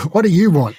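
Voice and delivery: insistent repeat with "you" lifted high; stress on YOU. Retold or imitated. Repeats question, stressing whose wish.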